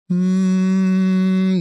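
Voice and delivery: loud hum with a yawn-open throat. Shown as a demonstration. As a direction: hum as if yawning, mouth closed. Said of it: "yawn with our mouth closed".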